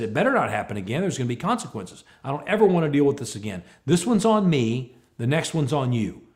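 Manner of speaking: mild telling-off, emphatic on the threat; retold stern warning. Boss warning employee of consequences, stern. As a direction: lay down the law, without shouting. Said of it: "I'm just giving him the business".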